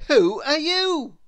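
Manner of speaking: high, loud friendly question; cheerful Mister Happy. Acted. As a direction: ask brightly who she is. Mister Happy asks her name.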